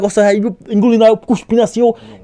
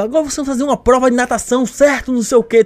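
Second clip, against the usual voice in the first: higher-pitched instructor's briefing; orderly official announcement; 5 semitones higher than usual. Retold or imitated. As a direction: lay out the test in an orderly way. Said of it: "falam bem certinho".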